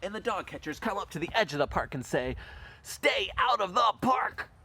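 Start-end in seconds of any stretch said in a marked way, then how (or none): 2.8-4.5 high, loud, slow order; stern shouted warning. Acted. Dog catchers at the park's edge to dogs, stern shout. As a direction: shout each word as a warning.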